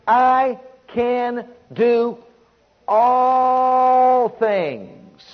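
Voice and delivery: slow, held out long on all things; stretched preaching call; drawn-out proclamation. Acted. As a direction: sing it out like a promise. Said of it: "quoting Paul at climax".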